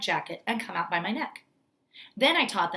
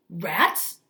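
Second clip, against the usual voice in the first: shocked cry; 5 dB louder than usual. Acted. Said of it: "cried Mister Stringer".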